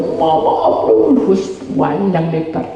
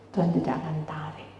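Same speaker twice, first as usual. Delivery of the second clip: whisper; 2 semitones lower, 13 dB quieter than usual. Real, not acted. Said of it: "speaker drops to whisper".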